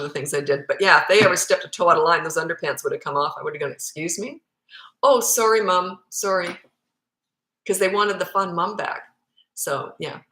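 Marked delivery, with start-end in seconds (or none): 3.7-4.4 affronted mum's rising question; taken aback, questioning upward; stern challenge. Retold or imitated. Mother sternly challenges misbehaving kids. 5.0-6.6 lightly voiced contrite kid; apologetic child. Kids hastily apologise to stern mother.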